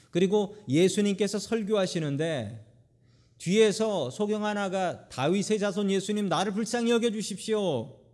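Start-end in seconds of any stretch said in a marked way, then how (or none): 5.1-8.0 mildly raised, higher-pitched plea; mock call for mercy, pitched up without shouting; retold crying out. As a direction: imitate a blind man calling out from behind. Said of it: "소리를 질러대니".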